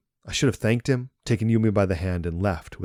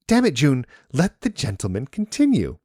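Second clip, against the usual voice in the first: sharp, higher and louder rebuke; scolding; 8 semitones higher, 6 dB louder than usual. A narrator's reading. Yumi scolding June to let the steward continue, loud and sharp. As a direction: snap at your brother to hush. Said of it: "she scolded me".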